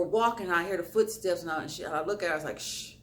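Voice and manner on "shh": soft, unvoiced shush; quietly re-enacted "keep quiet"; retold hush. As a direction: imitate hushing a friend. Hushing companion while being followed.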